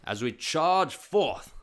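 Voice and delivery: slow, drawn-out movie cat villain. Acted. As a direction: purr it like an evil animated cat. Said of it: "classic impression of a, uh, cat bad guy".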